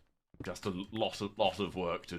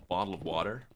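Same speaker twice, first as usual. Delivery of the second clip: American accent. Shown as a demonstration. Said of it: "the way I put on an American accent is with the phrase".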